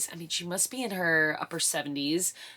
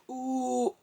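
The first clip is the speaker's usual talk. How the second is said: pushing groan; 7 semitones higher than usual. Retold or imitated. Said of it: "second push".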